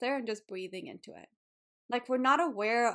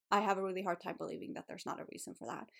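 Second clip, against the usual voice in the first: softer, faster, welling up as she repeats it; real emotion rising, voice dropping away; getting emotional; 2 semitones lower, 5 dB quieter, much faster than usual. Real, not acted. To her listeners about her body, softly emotional. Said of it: "I'm getting a little bit emotional".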